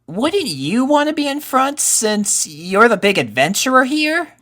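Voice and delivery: put-on high young colt voice with a teasing lift; a boy needling his friend; teasing colt Rumble. Rumble teasing Pip about leading, high boyish voice.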